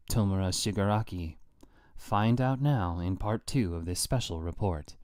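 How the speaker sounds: steady, neutral broadcast read; news reporter voice. Acted. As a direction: read it like an objective TV anchor. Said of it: "objective news reporter voice".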